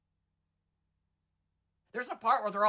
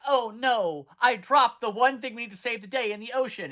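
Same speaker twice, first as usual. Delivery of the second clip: panicked whine; 6 semitones higher, 6 dB louder than usual. Retold or imitated. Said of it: "So then he's like".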